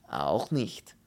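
firm refusal from a foreign character; decided, stolid Polish voice. Acted. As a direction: rule it out without budging. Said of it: "erklärte der Pole fest".

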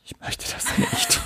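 high, tiny, strangled "ich möchte das nicht"; squeaky refusal. Retold or imitated. To the job agency clerk, a squeaky mock refusal. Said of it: "Und dann habe ich gesagt".

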